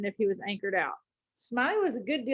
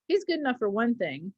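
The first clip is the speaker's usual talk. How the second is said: easy and careless. Acted. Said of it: "easy and careless".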